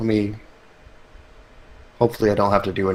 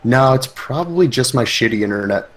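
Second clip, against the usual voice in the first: tinny, processed voice; glitchy robotic connection; tinny robotic audio; 3 semitones higher than usual. Real, not acted. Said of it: "a tinny sound to your audio".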